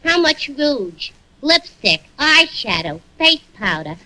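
a touch of a mocking dame, drawn out; lightly voiced sassy barmaid; brassy Miss Duffy. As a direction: list the cosmetics with scorn.

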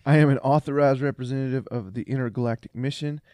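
loud, hammed-up British announcer; British accent. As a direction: proclaim it in a grand British accent. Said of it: "very British accent".

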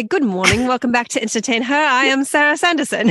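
attempted English accent that lands Australian; cute, shaky-authentic British greeting. Shown as a demonstration. Host greeting listeners in a bad English accent. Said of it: "come in with an English accent".

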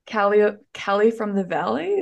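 light American Valley-speak with a rising end; a hint of very American Valley twang; American Valley accent. Shown as a demonstration. Hiker showing the host their old trail impression, lightly American Valley accent. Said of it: "like the very American".

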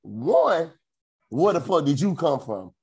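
mock-stunned rant; stunned disbelief. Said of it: "just sitting there just like".

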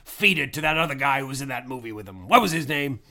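lightly voiced old British actor; pompous old thespian, hint of bluster; Albert Finney impression. Plays Albert Finney character.

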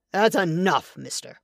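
a hard edge that drops away at the end; steely warning. Acted. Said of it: "Matt's voice had an edge".

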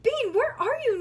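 high, loud worried yell; panicked high shout; frantic calling. A narrator's reading. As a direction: call out for a missing child. Frantic sitter searching for child.

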